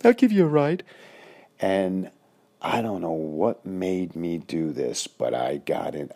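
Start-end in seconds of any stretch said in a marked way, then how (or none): 0.1-0.8 very high, loud quick strange voice; high-pitched voice. Retold or imitated. Coach offering the boy a ride home, high squeaky voice. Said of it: "Just like that, he goes".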